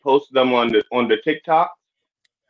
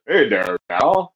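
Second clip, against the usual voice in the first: changed voice; 4 semitones lower, slower than usual. Retold or imitated. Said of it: "his voice just changes".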